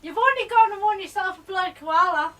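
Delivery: put-on broad Aussie line; Australian accent. Shown as a demonstration. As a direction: show him how to do Australian.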